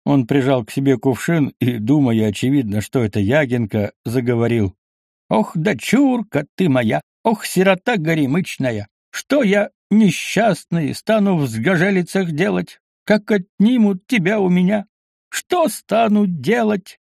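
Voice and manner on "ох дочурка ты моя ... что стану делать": tipsy lament. A narrator's reading. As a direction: mourn over the jug as if it were your daughter. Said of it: "зрелище это растрогало окончательно".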